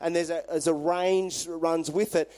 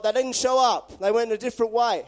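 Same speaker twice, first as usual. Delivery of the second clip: louder and higher, exasperated demand; frustrated soldiers; 4 semitones higher, 4 dB louder than usual. Retold or imitated. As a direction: bark it out like a furious officer. Scouts reporting the failed ambush.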